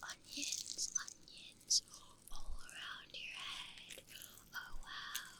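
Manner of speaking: hushed, voiceless whisper; ASMR whisper. Pretend. Streamer sends onions around the listener's head, whispered.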